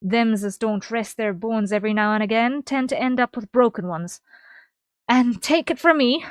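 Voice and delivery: put-on loud, hearty old sailor's brogue; rough sea dog. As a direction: bellow it like a gruff dockside boss. Keeps reading Baderin's lines.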